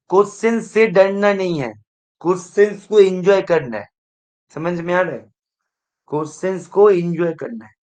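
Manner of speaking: loud, emphatic classroom urging; teacher's pep talk, projected. Real, not acted. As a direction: push it to the back row. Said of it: "मैं ना जब पढ़ाते हूँ, थोड़ा सा voice मेरा, आवाज थोड़ा सा ऊंचा हो जाते हैं".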